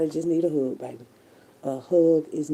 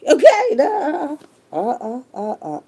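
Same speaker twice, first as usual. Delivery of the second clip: laughing; 10 semitones higher, 7 dB louder, slower than usual. Real, not acted. Laughing mid-rant.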